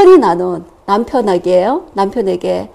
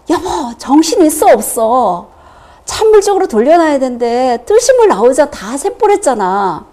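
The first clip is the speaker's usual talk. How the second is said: retold yell; 3 semitones higher, 3 dB louder than usual. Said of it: "소리를 이제 꽥 지르고".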